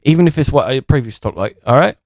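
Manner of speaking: put-on British lad accent, bruv; mock British geezer voice. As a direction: play a cocky British wrestler. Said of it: "trying to sound, like, British".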